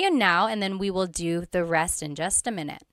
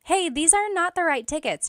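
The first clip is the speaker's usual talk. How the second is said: acted alert; 8 semitones higher than usual. Acted example of pointing out mistake.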